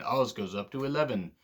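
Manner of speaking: put-on a lightly done, jokey British accent on "Oz goes up to eleven"; bad British accent. Wrestling reviewer joking to viewers in a bad British accent. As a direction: put on a half-hearted British accent, like a joke for British friends. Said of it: "I promise to do plenty of other bad accents".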